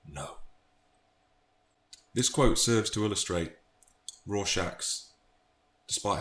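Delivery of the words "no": near-whispered, much softer final no; Rorschach whisper. Acted. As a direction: let the last word die in a whisper. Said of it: "in my best Rorschach voice".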